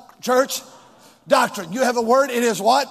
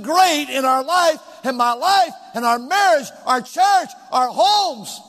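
raised, rousing preacher's delivery; emphatic preaching; 3 semitones higher than usual. Real, not acted. Preacher rallying church to believe God, emphatic preaching. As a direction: build conviction with punched key words.

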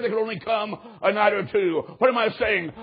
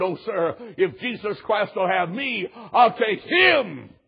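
mock-weeping, building to a drawn-out cry; imitated tearful plea; slower than usual. Woman answering the pastor at the altar, imitated tearful plea. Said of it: "In a weeping, tearful voice".

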